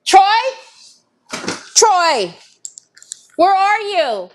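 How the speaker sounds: loud call across the house. Real, not acted. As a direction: call out to someone in another room. Calling out for husband.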